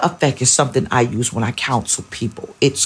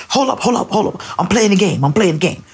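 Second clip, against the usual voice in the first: put-on higher, dismissive gamer kid; gamer son brushing off; 5 semitones higher than usual. Son busy on Fortnite waving off his mother, dismissive. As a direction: brush mom off mid-game. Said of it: "So he's in Fortnite mode".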